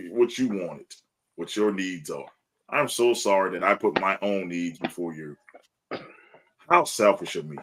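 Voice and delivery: understated mock contrition; sarcastic sorry. Shown as a demonstration. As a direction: feign remorse for looking after yourself. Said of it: "It's a sarcastic sorry".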